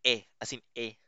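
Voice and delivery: "eh" as a plain open Tagalog E; Tagalog-style open E. Shown as a demonstration. Teacher explaining the grave accent, "eh" as open Tagalog E. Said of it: "Parang yung Tagalog na eh natin".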